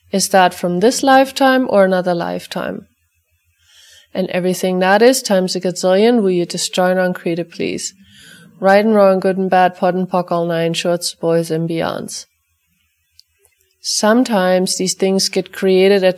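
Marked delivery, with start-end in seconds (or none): 4.1-12.2 brisk, rote recitation of a set formula, easing off toward the end; ritual clearing statement. Acted. Facilitator reciting the clearing for the listeners' dogs, rote chant. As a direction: rattle off the clearing chant as routine.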